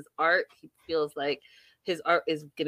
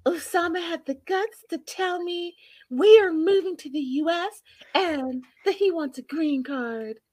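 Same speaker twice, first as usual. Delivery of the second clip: retold complaint; 8 semitones higher than usual. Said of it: "she calls her son".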